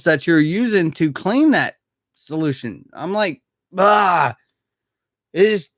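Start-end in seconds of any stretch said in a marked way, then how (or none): 3.8-4.3 long frustrated "aah", falling away; upset groan. Retold or imitated. Streamer retelling reaction to badly placed screws, upset groan. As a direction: let out a drawn-out exasperated "ah". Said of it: "it really upset me".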